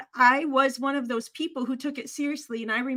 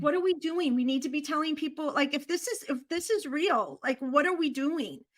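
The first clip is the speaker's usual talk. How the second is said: urgent plea; 3 semitones higher than usual. Retold or imitated. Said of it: "I was like".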